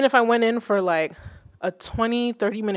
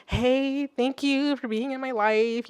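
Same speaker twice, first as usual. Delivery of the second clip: bittersweet; 5 semitones higher, slower than usual. Acted. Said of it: "it's a little bittersweet".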